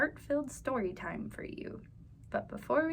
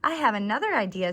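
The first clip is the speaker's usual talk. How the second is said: quick, louder excited announcement; eager; 4 semitones lower, 7 dB louder, faster than usual. Acted. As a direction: blurt out the new idea fast. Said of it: "said Hannah".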